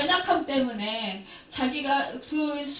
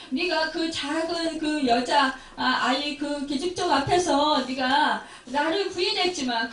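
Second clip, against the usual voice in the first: Jesus comforting Peter; 2 semitones higher than usual. Acted. Jesus reassures the ashamed Peter, earnest and tender. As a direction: speak as a forgiving Lord who sees the heart.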